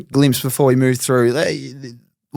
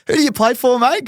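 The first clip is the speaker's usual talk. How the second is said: bouncer voice, raised high; bouncer asking; 9 semitones higher than usual. Retold or imitated. Bouncer quizzing a young footballer at the door, mock voice. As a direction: play the doorman questioning him. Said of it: "and the bloke goes".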